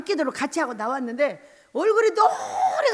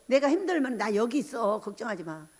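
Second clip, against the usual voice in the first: retold reassurance; 4 semitones lower, 4 dB quieter than usual.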